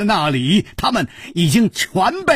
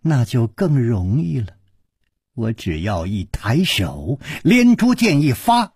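low, controlled angry threat; understated anger with one sudden rise; Hua Jingong, angry; 7 semitones lower than usual. A narrator's reading. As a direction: menace held low, flaring briefly. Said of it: "花金公怒道".

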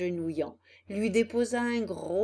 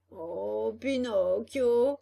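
slow, drawn-out mild wail; a begging fox's stretched-out call; lightly hammed-up plaintive cry; 4 dB louder, much slower than usual. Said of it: "cria le renard d'une voix plaintive".

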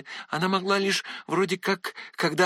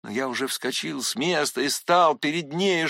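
ordinary delivery, nothing marked

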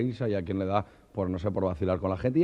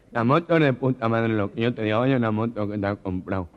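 gangoso. Acted. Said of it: "Llega un gangoso".

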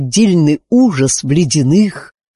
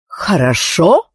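sharp repeat; 3 semitones higher, slower than usual. Acted. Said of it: "резко переспросила королева Психора".

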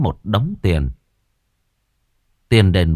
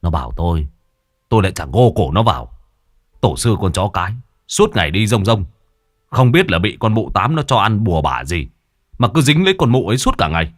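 put-on drunken rant; faster than usual. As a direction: spit it out fast like an angry drunk. Drunk son rants at father.

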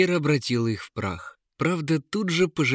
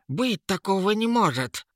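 much higher, a bit louder; shocked exclamation; 10 semitones higher, 3 dB louder than usual. A narrator's reading. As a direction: cry out in disbelief. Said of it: "воскликнула Эра".

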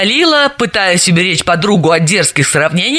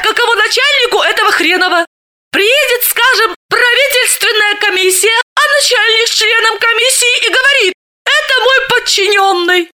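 laughing. Acted. Galina's laughing comic rant.

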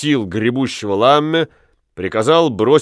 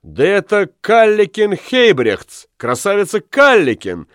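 higher, slowed delighted exclamation; exclaiming; 8 semitones higher than usual. Acted. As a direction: cry out her name in glad recognition. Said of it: "воскликнула Нелли".

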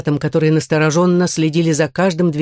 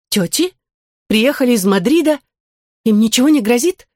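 higher, hurried anxious questions; worried; 6 semitones higher than usual. Acted. Girl alarmed hearing about her aunts, anxious.

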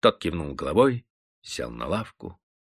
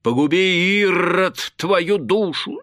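egging on shouts; 9 semitones higher than usual. A narrator's reading. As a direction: whoop the singer on like a rowdy tavern crowd. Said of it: "покрикивать".

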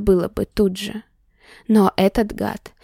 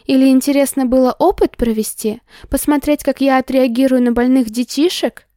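angry accusation; 4 semitones higher, 3 dB louder than usual. Acted. Heroine accusing him angrily.

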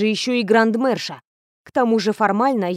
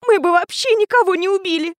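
high, pitiful, pleading; plaintive mumble; 9 semitones higher than usual. A narrator's reading. Alma pleading with the teacher, high and pitiful. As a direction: whimper it like a hurt child. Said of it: "жалобно пробормотала она".

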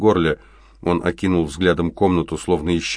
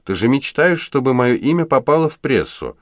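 blurting; 9 semitones higher, 5 dB louder than usual. A narrator's reading. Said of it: "выпалила Энджел".

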